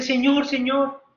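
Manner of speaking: high, slow, mildly plaintive call; tearful pleading. Acted. Crying woman calls to the innkeeper, mildly tearful. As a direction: plead lightly, as if in tears.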